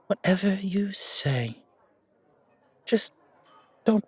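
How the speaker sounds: slow, breathy whispered reply. Acted. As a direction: slowly murmur it under your breath. Quiet aside at a bar.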